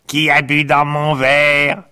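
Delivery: high, slow whining complaint; a petulant little complainer; whiny little voice. Acted. February whines about glass.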